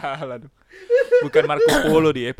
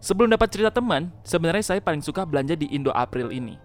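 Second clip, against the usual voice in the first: story narration. Acted. Reads a horror story aloud.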